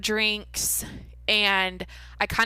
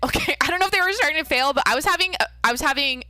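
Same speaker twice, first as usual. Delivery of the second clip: laughing, higher and louder, fast; laughing correction; 6 semitones higher, 6 dB louder, faster than usual. Real, not acted. Laughing at herself while telling listeners about her lungs. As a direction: laugh while you take back the exaggeration.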